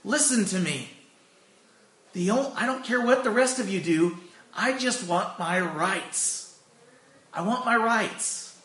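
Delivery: half-acted angry insistence; retold angry demand. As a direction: play the upset church member insisting, slowly, on his rights. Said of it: "got so angry that he stopped everybody".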